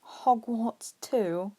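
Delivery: slow whispered question; slow, hushed aside. Acted. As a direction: breathe it out under the voice. Boy asks quietly.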